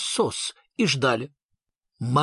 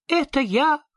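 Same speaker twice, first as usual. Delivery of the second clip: exclaiming; 10 semitones higher than usual. A narrator's reading. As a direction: burst out with it, jumping up. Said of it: "воскликнул Сниф".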